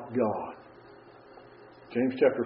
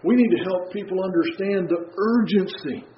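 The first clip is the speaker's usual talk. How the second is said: ordinary talk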